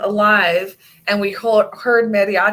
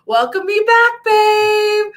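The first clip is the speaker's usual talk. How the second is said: high, louder sing-song welcome; playful greeting; 13 semitones higher, 5 dB louder, slower than usual. Retold or imitated. Wife quotes herself greeting husband playfully. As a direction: tease him brightly. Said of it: "I go".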